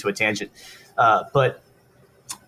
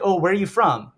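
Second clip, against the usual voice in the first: light, higher-pitched small-talk question; casual curious question; 6 semitones higher than usual. Retold or imitated. Stranger asking where he is from, casually curious. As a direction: ask it as breezy small talk.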